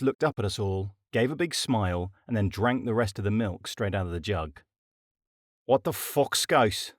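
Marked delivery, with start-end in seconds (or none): 5.6-6.9 hot. A narrator's reading. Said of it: "asked Coughlin hotly".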